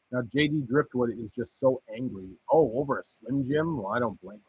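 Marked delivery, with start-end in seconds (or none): none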